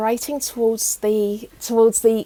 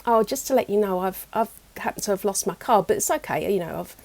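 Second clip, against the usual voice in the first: calm and gentle; 3 semitones lower, 4 dB quieter, faster than usual. Retold or imitated. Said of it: "I just said really calmly and just very gently".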